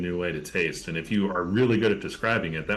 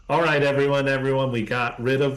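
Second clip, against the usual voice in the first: camp counselor voice; 2 semitones higher than usual. Acted. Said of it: "I'll do my best camp counselor voice".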